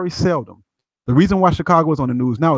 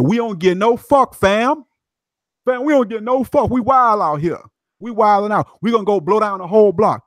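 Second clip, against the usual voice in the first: put-on young gang member, defiant; 5 semitones higher than usual. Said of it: "that's how he said".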